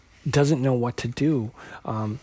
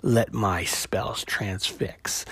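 low, slow, ominous sorceress proclamation; mock-grand dark sorceress; villain voice; 3 semitones lower, slower than usual. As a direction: boom it out like a demon queen. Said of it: "Ileana says to Danny".

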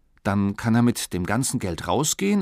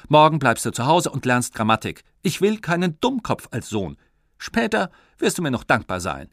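stern father; 4 semitones higher, 5 dB louder than usual. Acted. Father scolds son about grammar.

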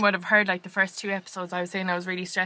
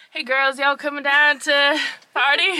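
mock American; 6 semitones higher, 5 dB louder than usual. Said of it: "he was like".

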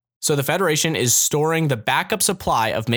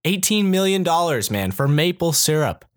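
mock disbelief; 4 semitones higher than usual. Real, not acted. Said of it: "valued at more than eighteen million dollars".

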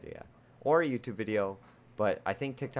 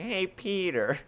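very high, slow cartoon mom voice; hammed-up falsetto Lois; Lois from Family Guy; 11 semitones higher, much slower than usual. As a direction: stretch it out like a bad Lois. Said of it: "Lois from Family Guy".

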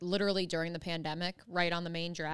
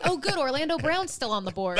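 laughing; 7 semitones higher, 5 dB louder than usual. Retold or imitated. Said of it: "I went".

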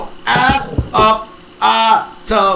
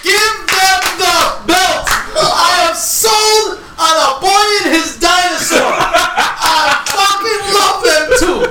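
excited; 5 semitones higher, slower than usual. Real, not acted. Hyped praise of favourite team.

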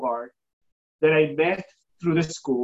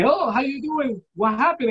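higher-pitched retold phone greeting; kid answering call; 6 semitones higher than usual. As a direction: lightly imitate a young person picking up.

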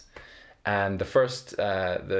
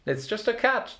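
much higher, stressed repeat; higher emphatic repeat; 12 semitones higher than usual. Acted. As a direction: push the line up high.

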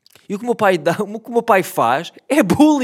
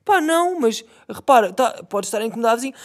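father's reply; 5 semitones higher than usual. Retold or imitated.

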